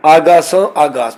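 first ਆਗਾਸਾਂ ends in a nasal aan; slow ਆਗਾਸਾਂ with nasalised last vowel; nasalised ending. Shown as a demonstration. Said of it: "ਪਹਿਲੇ ਆਗਾਸਾਂ ਦੇ ਕੰਨੇ ਉੱਤੇ".

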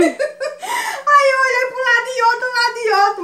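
high, breaking with giggles; can't stop laughing while telling it; laughing through words. Real, not acted. Laughing as she tells the mud story to followers.

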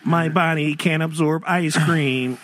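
hint of a booming arrogant alien overlord. Voicing alien.

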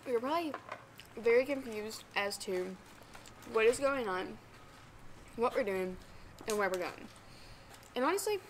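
talking around a bite of bagel; mouth full. Real, not acted. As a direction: speak with cheeks stuffed full. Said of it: "I'm gonna talk with my mouth full".

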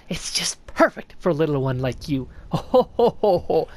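lightly voiced sly old snail, curious; a hint of a creaky old mystic greeting a stranger; snail shaman voice. Streamer reading the shaman's greeting to the knight, lightly voiced old mystic. Shaman offers a spell, cackles.

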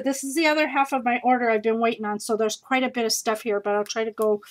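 rushing and out of breath; fast talk, running short of breath. Real, not acted. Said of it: "I'm getting out of breath".

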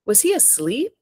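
an author reading her own novel aloud, steady and even; story narration. A narrator's reading. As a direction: tell it like a first-person story at a reading.

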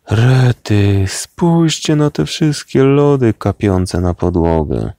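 high, loud cartoon wail of outrage; indignant outcry. A narrator's reading. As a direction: protest like food is being wasted. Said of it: "nie kryjąc oburzenia". (oburzony, wysoki okrzyk)

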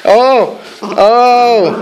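loud startled oh; startled by the barking; surprised oh. Real, not acted. Reacting to barking dogs.

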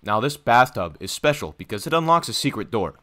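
lightly voiced salesman; breezy realtor showing the house; real estate agent pitch. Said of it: "I'm selling the house to you".

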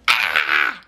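short imitated baby "ah"; babies' cry out. Mother imitates babies filling in the word, wordless blurt. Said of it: "they're like".

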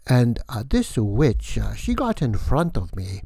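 hammy Transylvanian count, drawn out; vampire count voice. Acted. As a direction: play the theatrical vampire host welcoming guests. Count tells bat story.

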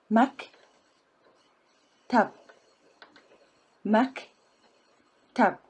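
مك and تب said as separate syllables. Shown as a demonstration. Teacher splitting the word for learners, syllable by syllable. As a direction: break مكتب into مك then تب. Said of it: "Put them together".

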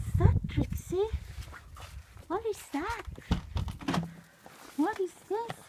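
high, soft cooing questions; pet talk. Real, not acted. Asking Trixie what is this, high pet-talk voice. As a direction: coo curiously to a little animal.

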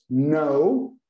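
know said as "now", no k sound; silent k. Shown as a demonstration. Teacher showing the silent k in know. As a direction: say know starting straight on the n, like now. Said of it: "Não se lê a primeira letra, é muda".

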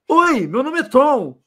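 a hint of a melancholy movie hero, drawn out; hammed-up sad film introduction, said slowly; quoting a sad film line. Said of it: "Mas pela entonação".

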